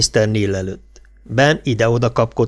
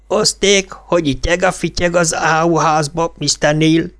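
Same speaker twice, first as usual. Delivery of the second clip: trumpeted mock Irish brogue; 6 semitones higher than usual. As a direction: blare a fake Irish accent at the cop. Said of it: "trombitálta".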